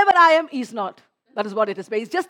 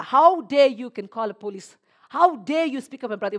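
retold anger; 5 dB louder than usual. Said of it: "I got so angry".

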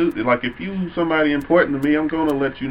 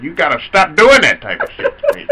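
laughing; 3 semitones higher, 6 dB louder than usual. Real, not acted. Laughing playful complaint.

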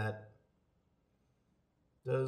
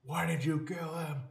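slow, higher accusing voice in a mock mystery scene; accusing murder suspect; 6 semitones higher than usual. Friend acts out a suspect being accused, slow and higher. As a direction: act out an accuser in a whodunit, slowly.

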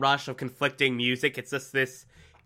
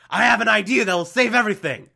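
mock eager pitch; 7 semitones higher, 4 dB louder than usual. Joe's eager pitch, retold.

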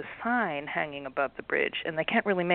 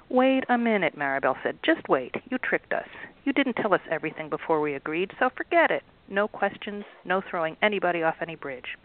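indignant Maribel. Acted. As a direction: push back hard at the trick. Maribel refuses the troll.

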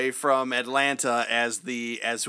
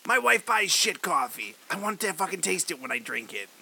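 Tarantino impression; 3 semitones higher than usual. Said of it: "That's what I was going for".

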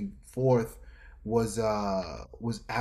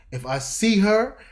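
usual speaking voice

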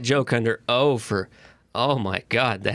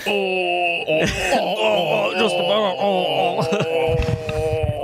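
fake crying; 5 semitones higher, much slower than usual. Imitating airline attendant.

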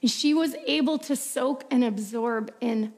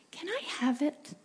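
father's soft request; 4 semitones higher, 7 dB quieter than usual. Acted. Father asks for necklace.

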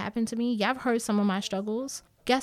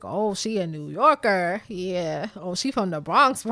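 a hint of a Bronx New Yorker attitude, louder and slower; 4 dB louder than usual. Imitating how her snap sounded to him, light Bronx New York attitude. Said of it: "And I said it in that tone".

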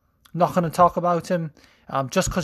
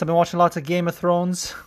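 put-on wobbly Scouse accent. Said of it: "probably gonna sound like Yorkshire".

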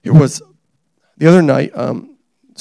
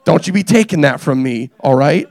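mock protest; 5 dB louder, slower than usual. Mock-defending his own slang.

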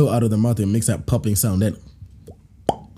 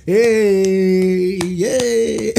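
a higher, chirpy, cartoonish cheer; mock happy guy; 7 semitones higher than usual. Imitating the fat guy enjoying himself, silly high cheer. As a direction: ham up a dopey celebration.

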